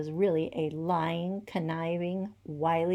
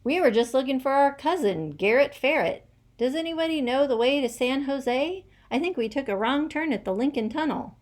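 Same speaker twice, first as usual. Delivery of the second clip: chatty lost moles; 6 semitones higher, 4 dB louder, faster than usual. A narrator's reading. Mole character voice.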